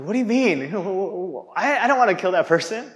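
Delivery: incredulous protest. Retold or imitated. Group protests mentor's claim.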